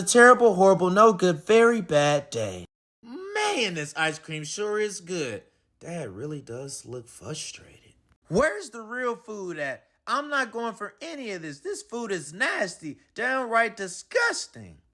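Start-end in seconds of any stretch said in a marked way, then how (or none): 3.0-14.8 much softer grumbling aside; muttering aside. Acted. Alexander at dinner, softly grumbling about the food. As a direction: grumble it under your breath.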